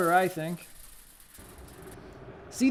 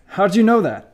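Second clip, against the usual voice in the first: surprised laugh breaking into the question; 3 semitones higher, 10 dB louder than usual. Acted. Colleague laughs when she recites the machine's specs, laughing. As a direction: laugh it out, caught off guard.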